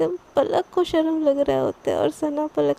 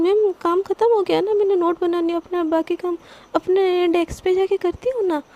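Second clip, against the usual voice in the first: higher, hurried plea to get away; nervous pleading; 3 semitones higher, 3 dB louder than usual. Acted. Sana to her boss, wanting to escape: nervous higher plea. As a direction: edge toward the door, asking to leave. Sana anxiously wants to leave.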